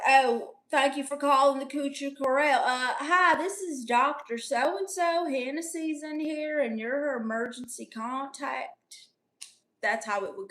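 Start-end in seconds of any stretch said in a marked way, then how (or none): 0.1-9.1 lightly voiced strip club phone greeter; a hint of a doctor calling the club; mock receptionist. Streamer imitates the club answering the hospital's call, lightly voiced. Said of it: "So it's like".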